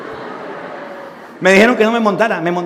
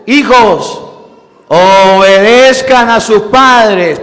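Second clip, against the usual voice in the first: louder, slow solemn command; solemn proclamation; 5 dB louder, much slower than usual. Acted. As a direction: proclaim Paul's words with weight. Cita solemne de San Pablo. (proclamando despacio y fuerte a San Pablo)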